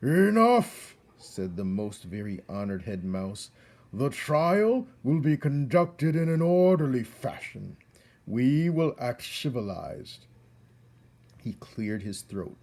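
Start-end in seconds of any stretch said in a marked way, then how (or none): 0.0-1.0 high, loud order to stop; commanding shout. Acted. Head mouse stops the crowd. 3.9-10.2 loud, higher judge's voice; stern head mouse. Acted.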